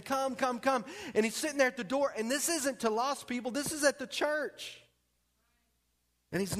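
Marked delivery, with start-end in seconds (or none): 0.0-0.8 higher-pitched, urgent plea; crying out. Retold or imitated. Preacher voicing Jesus calling the church, crying out. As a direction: imitate an earnest call to come. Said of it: "he's crying out to the church".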